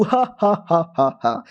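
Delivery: spaced-out, acted ha-ha; mock laugh. Senior teases the hero for worrying, mock laugh. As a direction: fake a teasing laugh in separate beats.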